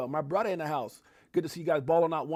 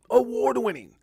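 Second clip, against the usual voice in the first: booming announcer call; 6 semitones higher, 5 dB louder than usual. Shown as a demonstration. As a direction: shout it out loud, hype announcer. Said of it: "that just sound dope as hell".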